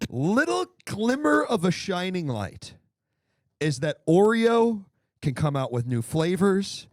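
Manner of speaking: slow, high mock-earnest speech. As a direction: deliver a tongue-in-cheek sincere sermon. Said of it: "I have an earnest, earnest take".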